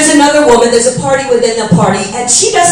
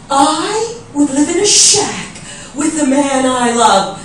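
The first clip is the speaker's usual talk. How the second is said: slow dreamy quote; 4 dB quieter, slower than usual. Retold or imitated. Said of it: "She's like".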